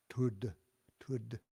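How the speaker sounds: "Tud": light T, end on a dull D. Shown as a demonstration. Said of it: "dull D".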